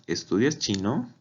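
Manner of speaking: "Estudias chino" as a question, voice rising at the end; rising question tune. Shown as a demonstration. Teacher showing question intonation, "chino" rising at the end. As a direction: lift the end of "chino" upward. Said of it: "los usamos también en las preguntas".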